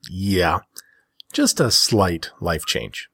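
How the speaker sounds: whispered, slow, dry understatement; deadpan it under your breath; sarcastic. Real, not acted. Wry aside about divorce.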